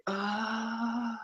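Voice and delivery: soft, airy "Ah" held high; breathy all the way. Shown as a demonstration. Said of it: "or is it all the way".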